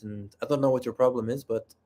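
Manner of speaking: lightly put-on Spanish accent. Shown as a demonstration. Attractive game character offering to fight a lich together, light Spanish accent. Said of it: "I give them a Spanish accent".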